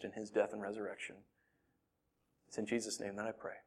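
earnest pastoral prayer, swelling then softening; spoken prayer. Real, not acted. Pastor praying for his church to love each other, earnest prayer. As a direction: plead with God for the congregation.

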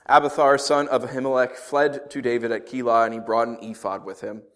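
measured Bible reading voice; scripture reading. Acted. Pastor reading scripture to the church, measured reading. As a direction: read the passage to the congregation.

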